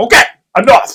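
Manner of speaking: put-on high, annoyed, fed-up teen voice. A stepdad retells teasing his stepson, imitating him getting mad. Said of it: "he gets all mad".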